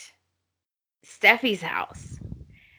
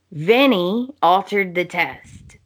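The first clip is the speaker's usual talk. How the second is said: dramatic reveal; 2 semitones lower than usual. Retold or imitated. Thomas finally tells Hope the secret, dramatic reveal. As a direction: deliver the big news in deliberate, separated phrases.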